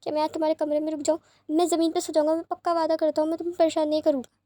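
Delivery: high, frightened begging, rushing the promises; a boy terrified of lightning, clinging on; डरी हुई ऊँची आवाज़ में गिड़गिड़ाना; scared and pleading. Acted. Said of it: "वो रो रहा है".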